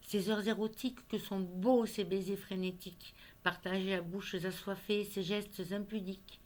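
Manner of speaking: measured poetry reading with pauses between phrases; poem recitation. Acted. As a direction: recite a love poem line by line. Recites her poem on love.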